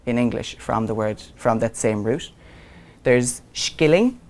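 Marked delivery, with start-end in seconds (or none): 3.0-4.2 slow "skilling" with a hard sk. Shown as a demonstration. Teacher to class, slowly sounding out "skilling". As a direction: draw out "skilling" so they hear the sk. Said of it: "which was a shilling".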